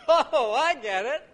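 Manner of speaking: laughing loud and high through the words; laughing realization. Acted. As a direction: burst out laughing as it clicks. Acting out finally getting joke.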